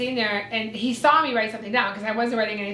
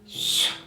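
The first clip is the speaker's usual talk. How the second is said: imitated whooshing recording. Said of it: "you just hear, like".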